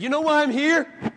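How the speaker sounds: lightly voiced arrogant pulpit boast; mock vain preacher. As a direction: play the vain speaker demanding attention. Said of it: "If I came into this pulpit and said".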